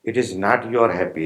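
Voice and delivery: your stressed, falling on happy. Shown as a demonstration. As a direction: lean on the word your. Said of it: "When I am saying happy".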